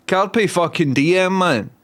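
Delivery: slow, high-pitched Scottish proclamation; Scottish accent. Shown as a demonstration. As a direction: draw it out in proud Scottish. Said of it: "You said Carpe Diem in Scottish".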